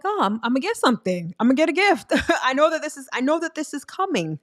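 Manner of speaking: put-on like a kid counting down to a birthday; giddy anticipation. Imitating a giddy friend expecting gifts. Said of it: "you're like".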